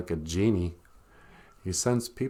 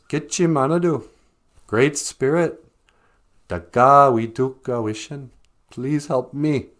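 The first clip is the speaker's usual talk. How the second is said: rabbit praying; 4 semitones higher, 4 dB louder than usual. Acted. Rabbit prays again.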